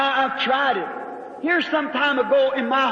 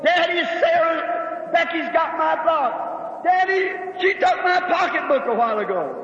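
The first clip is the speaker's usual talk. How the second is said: a mild mock yell of a squabbling little girl; half-hearted retold child's screaming; 3 semitones higher than usual. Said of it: "Sarah screaming to the top of her voice".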